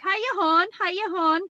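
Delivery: lilting, high up-and-down Wexford greeting; Wexford accent. Retold or imitated. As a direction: imitate a sing-song Wexford accent, pitched high. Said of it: "like, up and down how they speak".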